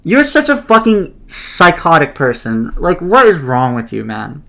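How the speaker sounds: high-pitched exasperated complaint; indignant, baffled anger; pissed off. Real, not acted. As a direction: berate the opponent in real frustration. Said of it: "I'm so fucking pissed".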